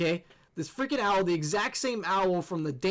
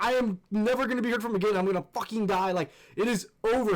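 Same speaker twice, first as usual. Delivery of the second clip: raised, dramatic doom-laden panic; retold freak-out; 4 semitones higher, 3 dB louder than usual. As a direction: rant as if doomed, hammed-up. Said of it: "I start freaking out".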